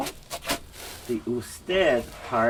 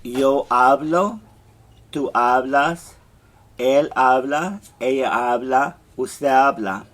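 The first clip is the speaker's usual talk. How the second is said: teacher modeling the drill; conjugation drill; 4 dB louder than usual. Shown as a demonstration. Teacher drilling the class, loud and clear. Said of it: "we take off that A R and we say".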